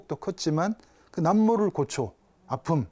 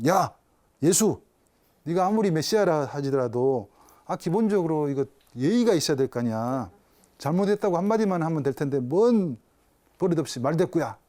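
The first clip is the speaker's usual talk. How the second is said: mock scolding. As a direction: scold the boy half in jest. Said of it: "막 그렇게 쓱 야단을 쳤을 거예요". (아이를 꾸짖는 듯한 가벼운 야단)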